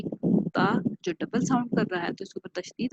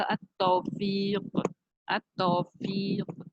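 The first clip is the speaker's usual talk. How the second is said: अत-तौफीक said slowly, twice; slow model reading; much slower than usual. Shown as a demonstration. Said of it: "तो क्या बनेगा".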